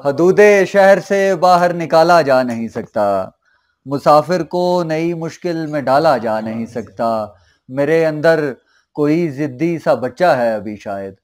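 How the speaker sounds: measured mushaira verse recital; ghazal recitation. Acted. Poet presenting couplets to a mushaira audience, measured recitation. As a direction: recite the couplet with drawn line-ends.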